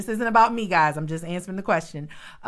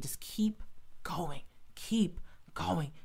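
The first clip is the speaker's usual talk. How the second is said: whispered encouragement; 7 dB quieter, much slower than usual. Retold or imitated. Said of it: "But God was saying".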